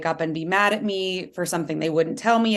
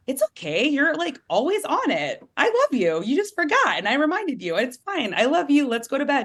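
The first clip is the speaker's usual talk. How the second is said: high, sweet voicing of the forgiving dog; pitched-up loving dog voice; dog's reassuring voice; 8 semitones higher than usual. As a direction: coo it like the dog comforting its owner. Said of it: "They're like".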